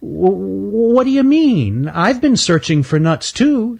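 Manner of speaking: high, stammering and sheepish; sheepish squirrel. Acted. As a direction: caught out, stumbling to cover. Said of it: "said Stanley sheepishly".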